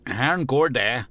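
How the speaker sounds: put-on extra-polite American-accented goodbye; endnu mere høfligt. A narrator's reading. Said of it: "sagde han endnu mere høfligt". (overhøfligt med amerikansk accent)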